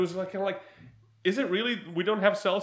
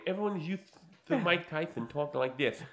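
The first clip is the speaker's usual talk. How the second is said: Mike Tyson's voice; 3 semitones lower, 5 dB quieter than usual. Shown as a demonstration. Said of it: "this is how Mike Tyson, this is how he talks".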